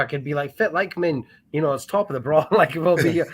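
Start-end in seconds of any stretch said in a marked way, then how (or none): 0.6-2.5 a hammed-up thick Doric Aberdeen accent; broad Scottish accent. Shown as a demonstration. Man from Aberdeen shows his hidden Scottish accent, hammed-up broad Scots. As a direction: lay on the local Scots dialect thick for fun. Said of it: "I could totally fuck it up".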